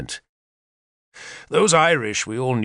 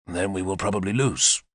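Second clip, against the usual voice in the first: calm admission. Acted. Arthur admits to Sagramore they may lose, calmly unbothered. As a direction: say it calmly, accepting defeat. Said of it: "Arthur admitted calmly".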